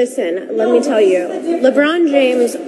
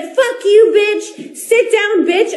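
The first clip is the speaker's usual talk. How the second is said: higher mocking put-down through a laugh; imitating LeBron; 8 semitones higher, much slower than usual. Wife mimicking LeBron's taunt at her, higher laughing mock-taunt. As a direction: play his taunt, laughing.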